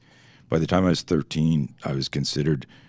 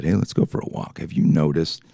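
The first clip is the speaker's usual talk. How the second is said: caring coach. Retold or imitated. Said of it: "put his arm around me and said".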